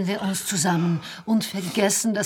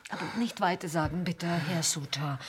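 softer, confiding; hushed secret; 2 semitones lower, 7 dB quieter than usual. Real, not acted. Cleaner begs him to keep her secret: hushed.

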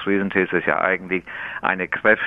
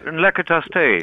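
higher-pitched East Frisian Platt phrase; East Frisian Low German; 8 semitones higher, faster than usual. Shown as a demonstration. Tea expert models a phrase for the host, East Frisian Low German. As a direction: show off East Frisian dialect. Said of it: "Wie sagt man dem Tee auf Ostfriesisch".

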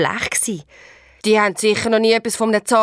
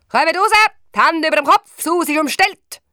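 higher, louder official shout; police call-out; 8 semitones higher, 5 dB louder than usual. A narrator's reading. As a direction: order them out like police. Police calling out.

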